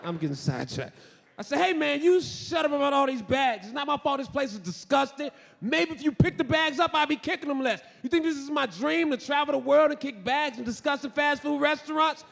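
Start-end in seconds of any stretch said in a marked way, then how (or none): 1.6-12.2 high-pitched mock indignant rant; acted irritated comeback. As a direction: snap back, pitched up. Retold indignant retort to guard.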